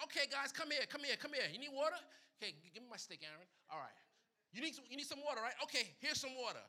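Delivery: loud, high, showman's call to the crowd; playing Moses. Moses calling the thirsty people over, loud and cocky. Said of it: "And I'm like".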